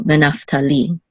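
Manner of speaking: "Venaftali" with weight on final "li"; accent the last syllable of "Venaftali"; stress on LI. Shown as a demonstration. Teacher repeating the name for learners, final stress in "Venaftali". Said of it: "So the accent is on".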